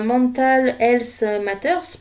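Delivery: slow, careful English with a French accent. Shown as a demonstration. Crafter reading her sticker aloud to viewers, slow French-accented English. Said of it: "parce que mon accent, est juste génial".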